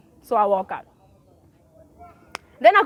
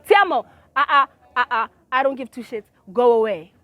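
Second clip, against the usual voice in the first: dismissive shout; 6 dB louder than usual. Retold or imitated. Retold brush-off.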